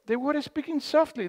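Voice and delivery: ordinary delivery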